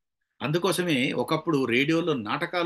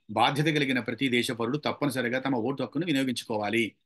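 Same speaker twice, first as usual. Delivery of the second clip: even, unstressed newsreader delivery; ordinary news reading; 2 semitones lower than usual. Shown as a demonstration. Teacher showing an ordinary reading, unemphatic news style. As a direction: read it straight through, like routine news. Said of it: "మామూలు చదివితే ఇట్లా ఉంటుంది".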